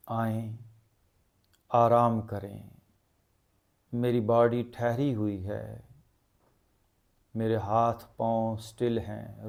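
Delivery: slow, measured meditation voice with long pauses; guided meditation. Acted. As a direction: guide them gently into stillness, phrase by phrase. (धीमी, ठहरी हुई ध्यान की आवाज़)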